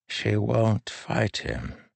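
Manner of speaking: put-on high, slow old man's voice; frail old man. A narrator's reading. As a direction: speak as a gentle aged king.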